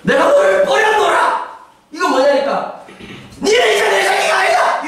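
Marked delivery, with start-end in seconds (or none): 0.0-1.5 angry shout. Pretend. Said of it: "이런 소리". 3.4-4.9 angry shout. Pretend. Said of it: "이런 소리".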